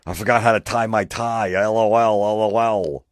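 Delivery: high, loud goofy voice; mock him cackling like an idiot; dopey laughing guy. Mocking the laughing poster.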